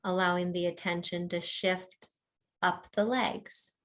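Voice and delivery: unhurried meditation guide with long pauses; calm mindfulness-teacher delivery, phrase by phrase; guided body scan. Real, not acted. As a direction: lead them gently through a body scan, leaving space between phrases.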